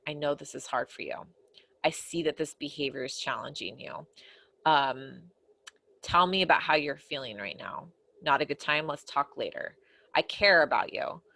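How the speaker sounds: sincere empathy. Shown as a demonstration. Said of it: "giving sincere empathy is saying things like".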